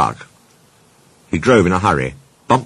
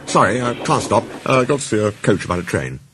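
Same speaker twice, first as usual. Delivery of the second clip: mildly flustered excuse; hurriedly; 4 semitones higher than usual. A narrator's reading. Thomas excusing himself to Toby, a touch hurried. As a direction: make a slightly hurried excuse to leave. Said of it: "he went on hurriedly".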